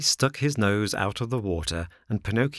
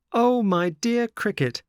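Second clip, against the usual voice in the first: very high, loud, gushing greeting; high-pitched, over-polite delight; effusive Pinocchio; 13 semitones higher, 5 dB louder than usual. A narrator's reading. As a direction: greet sweetly in a high puppet voice.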